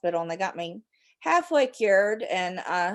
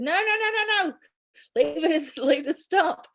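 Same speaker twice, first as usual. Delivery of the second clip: retold protest; 6 semitones higher, 3 dB louder than usual. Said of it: "I said".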